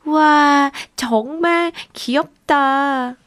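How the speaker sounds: a loud wow, then slow delight; exclaiming in delight. Acted. Boy marvelling at the slug's wiggling eyes, delighted exclaim. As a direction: gasp with wonder, draw it out. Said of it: "빌리가 탄성을 질렀어요".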